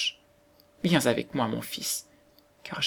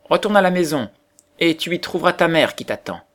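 raised, higher voice calling across the yard; 6 semitones higher, 5 dB louder than usual. A narrator's reading. Woodcutter and wife call the star child home, calling out loudly. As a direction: call him home, loud and high.

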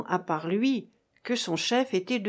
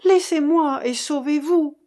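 higher and louder, pleading; frightened cry, higher and louder; anxious cry; 7 semitones higher, 6 dB louder than usual. A narrator's reading. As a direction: beg him to save himself. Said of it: "s'écria Yvonne".

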